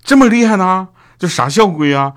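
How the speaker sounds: high, loud awestruck question; impressed, envious. Retold or imitated. Listener reacts to Doudou's school boast, impressed and envious. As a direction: exclaim in hammed-up admiration. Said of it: "这时候我就当时很羡慕".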